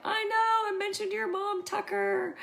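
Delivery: high, loud re-enacted squeal; thrilled agreement. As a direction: exclaim it high, bursting to agree. Retold excited reply about the dog.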